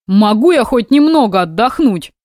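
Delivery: sulky. Acted. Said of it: "набычился мужчина".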